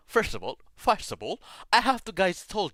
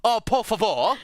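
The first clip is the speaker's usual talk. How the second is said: higher, lightly hammed British exasperation; mock British; 5 semitones higher, 4 dB louder than usual. Streamer joking along after teasing, mock British. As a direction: play up a hint of British. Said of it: "it sounds like a British".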